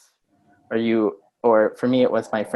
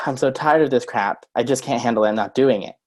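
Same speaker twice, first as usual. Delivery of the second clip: tired, fed-up complaint; drained and grumbling; worn-out, sighing refusal; weary exasperation; 4 dB louder than usual. Shown as a demonstration. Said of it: "and not say".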